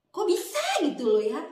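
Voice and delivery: disbelief. Real, not acted. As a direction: blurt out your astonishment. Shocked by confession. (kaget tak percaya)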